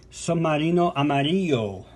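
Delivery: A song title said the Spanish way, in a Spanish accent; a collector's casual Spanish accent on the song title. Shown as a demonstration. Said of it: "Excuse me for my, uh, Spanish, uh, accent".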